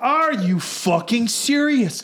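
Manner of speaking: very slow disbelieving question; answering the girlfriend, slow incredulous question. Retold or imitated. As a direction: drag it out in disbelief.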